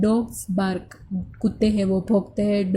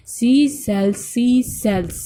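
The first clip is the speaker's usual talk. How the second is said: teacher modelling a phrase loudly; clear, slightly raised demonstration voice; much slower than usual. Shown as a demonstration. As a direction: speak up a little for the class to repeat. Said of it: "Say loud। आपको ये ज़ोर से बोलना है".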